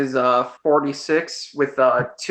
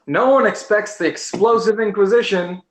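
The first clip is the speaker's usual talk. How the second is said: higher-pitched, half-hearted yell; mock battle yell; 5 semitones higher than usual. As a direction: call it out as a playful battle cry. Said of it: "I, uh, I yell out".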